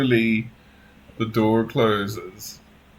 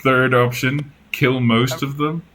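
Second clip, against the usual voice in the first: Ragnar's line; 3 semitones higher, 5 dB louder than usual. Acted. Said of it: "Ragnar says".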